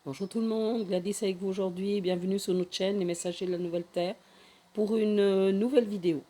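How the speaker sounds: hoarse, gravelly sore-throat voice; raspy voice from the grave. Real, not acted. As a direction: speak through a rough, rasping throat. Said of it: "avec une voix, euh, d'outre-tombe ... un petit peu rauque".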